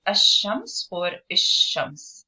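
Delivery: "ash-shams or ish-shams" slowly, with a held sh; sh sound shown. Shown as a demonstration. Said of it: "that's the S H sound or the sh sound".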